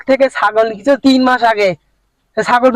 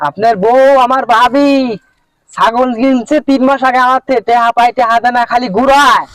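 raised, insistent complaint; too loud; 3 semitones higher than usual. Acted. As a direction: say it loudly, pitched a little up, to be understood. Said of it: "আস্তে কথা ক".

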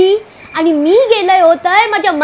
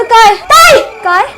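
eager; 4 dB louder than usual. Acted. Child eager for story.

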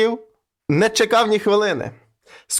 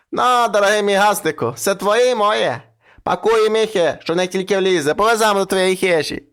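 coaxing witch; 3 semitones higher than usual. Acted. Old witch sweetly offering her riches to the man. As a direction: lay it on thick, like a crafty old crone.

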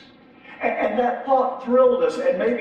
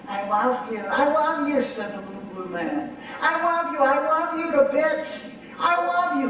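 high, sing-song little creature voice, much higher; little blue man; 6 semitones higher than usual. Acted. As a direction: coo it like a clingy little creature.

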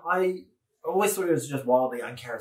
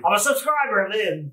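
higher-pitched imitated dad; dad impression; 7 semitones higher, 3 dB louder than usual. Listener's dad as devoted subscriber, imitated in a raised voice. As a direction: lift it into a mock dad voice. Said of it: "And then your dad said".

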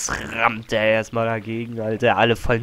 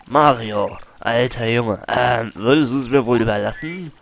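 smooth adventurer. Acted. Colorado asks for artifact.

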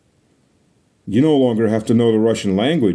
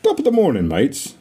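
hammed-up British accent; poor British accent. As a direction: put on a bad British accent. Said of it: "on this ends my poor British accent".

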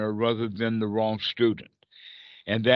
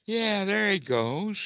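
light relief; 6 semitones higher than usual. Retold or imitated. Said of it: "we could say".

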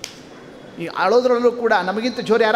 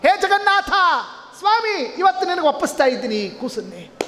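mother's choked plea; 7 semitones higher than usual. Acted. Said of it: "ಕಂಠ ಬಿಗಿದು ಬಂತು".

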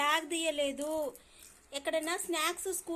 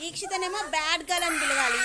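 teasing call-out; 6 dB louder than usual. Real, not acted. Mother teasing crying daughter.

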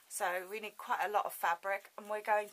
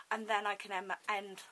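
talking without teeth; gummy, toothless speech; faster than usual. Real, not acted. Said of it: "Sorry, I've got no teeth today".

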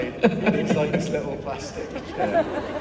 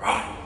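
retold psych-up roar; 3 dB louder than usual. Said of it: "And he did this, like, jump".

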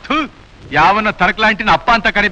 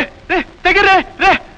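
startled protest; 8 semitones higher than usual. Acted. Stranger grabs him, he protests.

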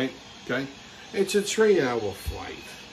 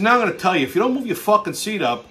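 retold threat; 3 semitones higher, faster than usual. Threatening the reclining passenger.

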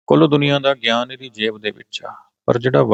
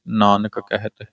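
ਨਾਨਕ ਕਹਿਤ run together as one unit; no pause; slower than usual. Shown as a demonstration. Teacher saying read it together, ਨਾਨਕ ਕਹਿਤ joined smoothly. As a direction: say ਨਾਨਕ ਕਹਿਤ without a break between. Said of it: "ਇਕੱਠਾ ਪੜਾਂਗੇ ਜੀ".

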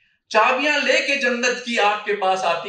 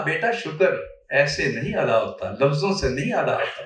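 mother's gentle correction; 6 semitones lower than usual. Retold or imitated. Mother tells her son words alone aren't thanks, gently correcting. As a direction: lightly act a mother correcting her child.

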